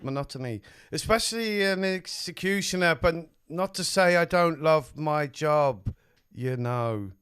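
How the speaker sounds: put-on London accent. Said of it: "London accent".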